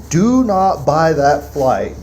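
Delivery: "Do not buy that flight" said slowly, each word leaned on; slow emphatic quote. Retold or imitated. Quoting his warning to Troy, slow and firm. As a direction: spell out the warning slowly and firmly. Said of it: "when I told you".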